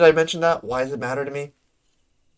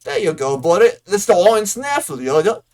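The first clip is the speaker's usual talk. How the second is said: hammed-up, unplaceable rustic accent, rising high in exasperation; Bodwin's muddled accent; 3 semitones higher than usual. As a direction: grumble in a wobbly made-up country accent. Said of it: "I don't know what accent this is".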